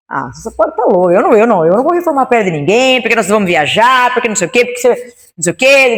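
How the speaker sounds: swinging, sing-song mock protest; mock indignant refusal. Husband refusing to fund his wife's project, mock indignant. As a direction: imitate an exasperated husband rattling off objections.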